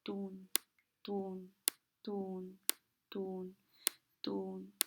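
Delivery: soft rhythmic "tun" like a stethoscope pulse; imitating heartbeat sounds. Shown as a demonstration. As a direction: tap out each "tun" quietly, like Korotkoff sounds. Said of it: "empiezo a escuchar los ruidos". (imitando suavemente los latidos, "tun")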